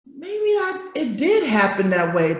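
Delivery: high, soft hesitant voice; mock self-doubt. Gaslit child doubting themselves, high and soft. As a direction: sound unsure of your own memory.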